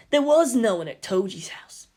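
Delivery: hushed, breathy whisper. Acted. Kensuke telling the class rep secretly, whispered. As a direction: lean in and whisper it. Kensuke explains Toji's absence.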